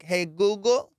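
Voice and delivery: wake-word call. Shown as a demonstration. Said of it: "you gotta be like".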